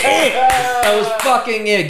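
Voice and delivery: high, slow and drawn out; emphatic finality. Real, not acted. Storyteller recalling the only reply, slow emphatic finality. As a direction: spell out the end, word by word.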